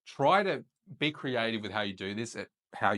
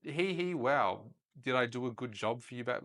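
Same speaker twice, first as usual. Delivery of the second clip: ditzy mock voice. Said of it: "Don't be all like".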